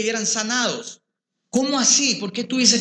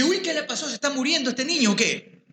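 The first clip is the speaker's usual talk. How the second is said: retold alarmed surprise; 6 semitones higher than usual.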